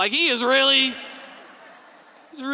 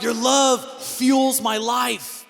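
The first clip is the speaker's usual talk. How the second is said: slow romantic line; much slower than usual. Retold or imitated. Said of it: "I remember wanting to tell my wife".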